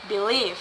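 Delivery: believe with weight on LIEVE; stress on second syllable. Shown as a demonstration. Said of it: "stress in the second".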